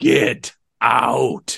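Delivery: booming, rough, loud wizard voice. Retelling someone ordering wasted people out in the dark, booming Gandalf voice. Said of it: "with a Gandalf booming voice says".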